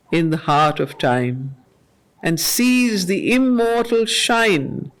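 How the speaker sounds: slow, measured reading of verse; poem recitation. Acted. Teacher reading Savitri lines to the class, measured and solemn. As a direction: let each line land with weight.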